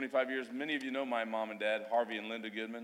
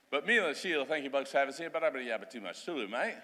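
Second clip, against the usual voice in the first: put-on old Australian slang; faster than usual. Shown as a demonstration. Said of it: "I'm gonna speak the old, uh, old Australian".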